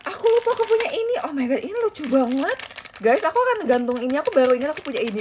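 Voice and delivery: high, loud and fast excited gush; excited squeal. Real, not acted. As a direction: squeal over a rediscovered toy. Squealing over rediscovered merch.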